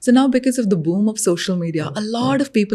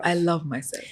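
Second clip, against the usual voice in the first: quiet repeat-after-me; 2 semitones lower, 6 dB quieter than usual. Pretend. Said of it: "even now with me, and say".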